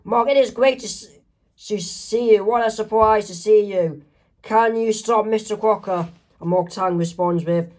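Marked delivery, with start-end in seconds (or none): 0.0-6.1 higher, eager cartoon voice; acted delight, pitched up; excited greeting. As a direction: greet a friend with mild excitement. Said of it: "so excited to see Mark Chang".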